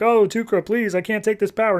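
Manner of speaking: high-pitched imitated panic; mock freak-out. Essence begging Duker over untold power, mock freak-out. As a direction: plead as if overwhelmed, lightly acted. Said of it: "Essence just starts freaking out".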